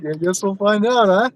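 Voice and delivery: a hint of Southern accent. Real, not acted. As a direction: slip lightly into a Southern accent. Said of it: "Did you just have a Southern accent?".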